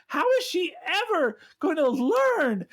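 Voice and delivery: high, slow mock villain voice, laughing through it; mocking Tony. Mocking Tony to the co-host, high and hammy. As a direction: ham up a scornful boss. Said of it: "Tony's like".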